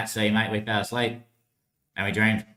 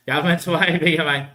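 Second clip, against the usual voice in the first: louder, higher, breaking into a laugh on "way"; 5 semitones higher, 4 dB louder than usual. Real, not acted. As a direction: crack up mid-line. Says the line twice, laughs.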